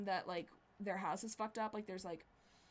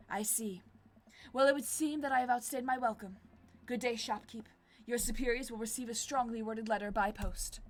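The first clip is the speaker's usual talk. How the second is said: Damien; 2 semitones higher, 4 dB louder than usual. Acted. Damien's indignant exit.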